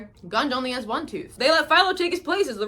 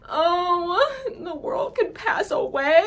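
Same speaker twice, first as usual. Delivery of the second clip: teary quote; 6 semitones higher, slower than usual. Real, not acted. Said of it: "I really love this song".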